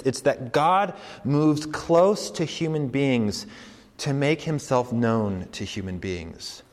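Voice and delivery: slow, weighing each word; slow deliberate claim. Shown as a demonstration. Preacher stating the radical claim slowly. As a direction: spell out the bold claim slowly. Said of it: "repeats claim".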